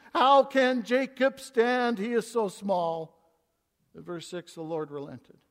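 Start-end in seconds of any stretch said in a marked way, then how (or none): 0.1-3.2 loud plea. Acted. Amos pleading for Jacob.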